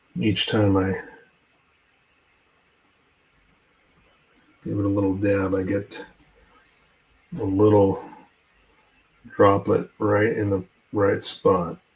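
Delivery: speaking slowly with focused concentration. Dabbing paint with a brush while narrating the work, speaking slowly while concentrating. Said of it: "I'm sorry I'm speaking, slowly because I'm really concentrating".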